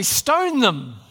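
loud mob cry; mob shout demo. Shown as a demonstration. Pastor shows the congregation how a mob cries out, loud. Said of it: "rise up as a mob and say".

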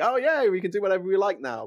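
high, loud smug mockery; mocking smug politician. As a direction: sneer it like a cocky politician. Mocking politicians' imagined attitude.

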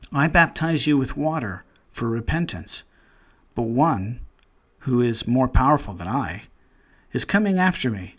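measured, solemn reading of John's words; scripture reading. Acted. Preacher reads the Baptist's words aloud to the congregation, solemn and measured. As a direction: read it out as holy scripture, unhurried. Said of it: "we don't know anybody who talks like this".

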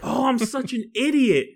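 high, loud self-mocking laugh; laughing at himself. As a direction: laugh it out while calling yourself an idiot. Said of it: "he's like".

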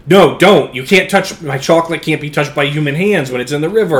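Wonka's frantic shout. Retold or imitated. Wonka yelling at Augustus to keep out of his chocolate, frantic shout. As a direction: shout in alarm as the boy drinks from the river. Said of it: "Willy Wonka says".

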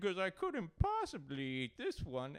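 high, loud caricature of a fussy diner; mocking picky eater. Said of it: "that's when I start in".

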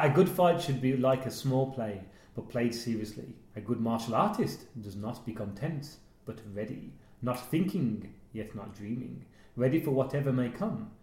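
slow, low, calm martial arts master; a hint of a solemn kung fu master; Bruce Lee voice. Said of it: "I'm not gonna do the Bruce Lee line".

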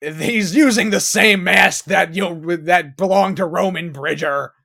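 a hint of hammy cop delivery; mocking the actor. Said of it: "when Dermot Mulroney goes".

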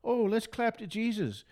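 slow, mocking churchy sing-song. Mocking clappy churchgoers, slow sing-song parody. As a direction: parody the happy-clappy crowd slowly. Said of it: "am I mocking? Okay, I'm mocking".

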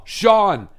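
loud, high call through laughter; laughing shout of a name; mock swooning call. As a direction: imitate mom calling out to her crush. Imitates mom calling out for Sean.

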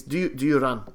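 lightly attempted foreign accent, sounding Afrikaans; Mehmet, accent impersonation. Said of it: "try and do an impersonation".

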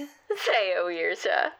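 Seowirsha dragged out slowly, each syllable spelled; slow mispronunciation. Acted. Receptionist slowly mangling the caller's Irish name. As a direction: sound out Seowirsha slowly and wrongly. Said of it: "That's some name".

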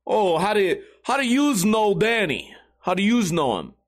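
lightly put-on Italian-American accent; mocked Italian accent. Teller quotes the guy at the bar, mock Italian accent. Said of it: "making fun of his accent".

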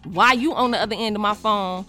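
firm telling-off without cursing; controlled aggressive tone. Retold or imitated. Woman scolding her crush's friend by phone, controlled aggression. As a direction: lay down the law, composed but confrontational. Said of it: "calm with it in an aggressive tone".

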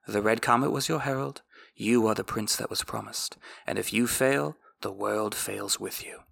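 measured audiobook reading; story narration. A narrator's reading. Recapper reads the book passage aloud in a measured narration. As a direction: read the chapter like an audiobook narrator.

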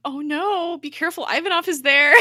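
high-pitched fretting, retold; worried. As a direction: imitate your own anxious warning, voice up high. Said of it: "like, really worried".

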